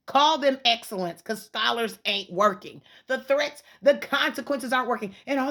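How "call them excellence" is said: said again with more force, pitched up; a firmer second go at it; louder insistence. Real, not acted. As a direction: push the repeat harder, punching call. Repeating suggestion to the school.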